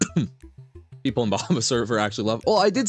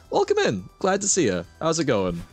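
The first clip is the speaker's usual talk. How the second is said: cute streamer greeting; 4 semitones higher than usual. Real, not acted. Greeting a viewer.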